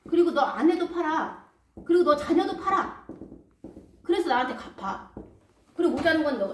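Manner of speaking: a stern lord coldly ordering everything sold; harsh master. Acted. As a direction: lay down the sentence without pity.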